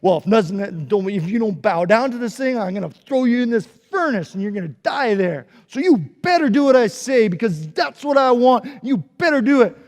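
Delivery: loud bossy threat; threatening king. Acted. King warning the people, bossy threat. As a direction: lay down the law. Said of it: "King Nebuchadnezzar had said".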